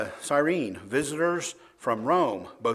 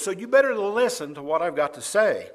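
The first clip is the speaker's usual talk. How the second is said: firm, mildly raised warning; a touch louder, telling the crowd off; 3 semitones higher, 5 dB louder than usual. Acted. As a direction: insist on being heard. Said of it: "he raised his voice and said to them".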